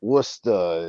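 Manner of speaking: put-on "Worcester" in a Boston accent, final r dropped. Imitating kids from Eastern Mass, Boston accent. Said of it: "we don't talk like that".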